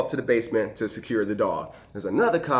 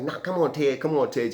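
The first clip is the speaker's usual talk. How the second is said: mildly eager coaxing; happy little buddy; 3 semitones higher than usual. Retold or imitated. Little buddy urging Ted to come along, mildly happy. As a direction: coax a friend along, a touch higher. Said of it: "He's happy as he can be".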